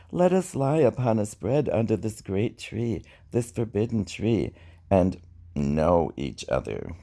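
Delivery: lightly lifted, gentle Eve voice; soft falsetto. Acted. A poet voicing Eve softly to Adam under the tree, lightly lifted. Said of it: "I speak this in my soft falsetto".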